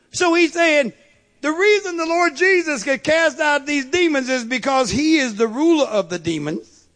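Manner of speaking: lifted pulpit delivery; forceful preaching. Real, not acted. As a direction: preach the accusation out to the room. Preaching the accusers' argument with force.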